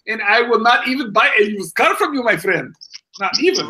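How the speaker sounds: put-on Indian accent; hammed-up Indian accent; mock Indian accent. Answers the pitch in same accent.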